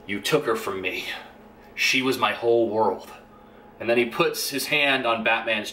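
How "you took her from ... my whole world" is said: low, grave Superman voice, a notch below his own; mock-solemn accusation, heavy and lowered; a lightly voiced grieving Superman; brooding Superman. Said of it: "and he's like".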